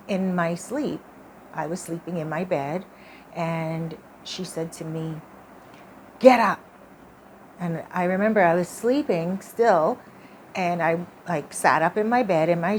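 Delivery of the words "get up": ghost's command. Retold or imitated. Ghost wakes her in dream.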